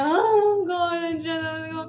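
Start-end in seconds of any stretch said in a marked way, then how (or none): 0.0-0.3 imitated wail. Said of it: "ganun niya".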